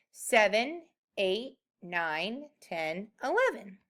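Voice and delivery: counting on aloud, one number at a time. Shown as a demonstration. Teacher counting up on sticks for the students. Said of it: "count up four on my counting sticks".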